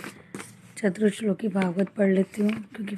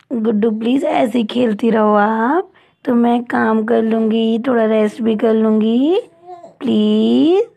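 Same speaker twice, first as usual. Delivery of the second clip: pleading; 4 dB louder than usual. Real, not acted. Begging baby to keep playing.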